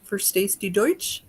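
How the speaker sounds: German spoken with a heavy American accent; bad American German accent. Shown as a demonstration. Host asks viewer Marina in clumsy American-accented German. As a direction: ask it in self-consciously Americanized German. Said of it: "that's a bad, bad Americanized German accent".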